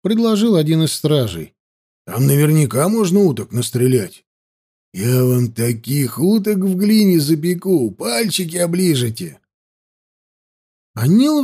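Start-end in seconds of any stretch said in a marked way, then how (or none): 2.0-9.4 lightly voiced hearty soldier; a hint of a boastful trooper; eager guard. A narrator's reading. Guard tempts his master with roast duck, eager.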